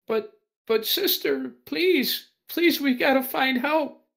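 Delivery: put-on high, pleading young voice with a Russian accent; Russian accent, begging sister for help; pleading child in Russian accent. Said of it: "in a Russian accent".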